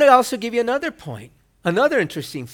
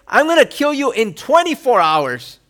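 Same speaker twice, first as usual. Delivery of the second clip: mock angry threat; 3 semitones higher, 4 dB louder than usual. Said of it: "what she says".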